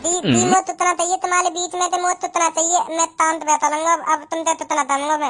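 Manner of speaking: mock lisp. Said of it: "मैं काय को तुतला रहा हूँ?".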